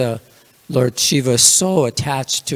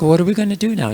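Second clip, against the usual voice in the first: higher-pitched, mildly concerned retold question; lightly voiced Parvati; 8 semitones higher, much faster than usual. Wife asks husband what happens now, lightly voiced concern. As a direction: lightly act out a wife's concern, pitch lifted.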